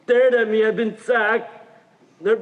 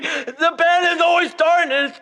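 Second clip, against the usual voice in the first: laughing into tears; 4 semitones higher than usual. Acted. Recalling beatings, laughing then crying.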